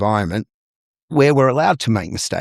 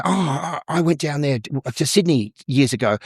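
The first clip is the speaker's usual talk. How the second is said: higher-pitched eager reminiscing; mock delighted recognition; 5 semitones higher than usual. Panel member recalling a Sydney trip, mock delight. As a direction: imitate someone thrilled to share a connection.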